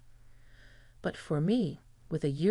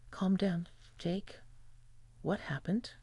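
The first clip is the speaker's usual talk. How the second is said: comforting; 2 semitones higher, 4 dB quieter than usual. A narrator's reading. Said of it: "In my best comforting voice".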